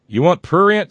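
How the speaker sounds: high, loud incredulous quote; mock incredulous. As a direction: toss the question back, incredulous. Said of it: "says Ron".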